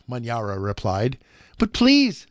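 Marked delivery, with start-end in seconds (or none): 1.6-2.3 put-on high pleading little boy; begging small boy. A narrator's reading. Hungry boy begs Manyara again, high plea. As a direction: beg like a hungry child.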